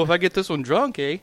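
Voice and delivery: mock Canadian accent.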